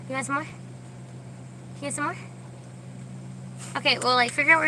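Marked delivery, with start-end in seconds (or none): 0.1-2.2 slow breathy whisper to the dog; soft doting whisper to a dog. Real, not acted. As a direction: hush it to the pet, very slow. Whispered baby talk to dog.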